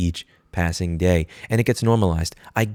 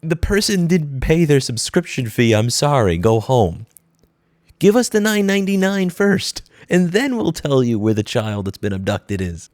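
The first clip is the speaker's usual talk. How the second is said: louder, higher mock corporate brush-off; mock company rep; 5 semitones higher, 4 dB louder than usual. Vlogger mocking the rep who demanded payment, loud and snide. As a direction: play the smug rep turning her away. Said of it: "They're saying".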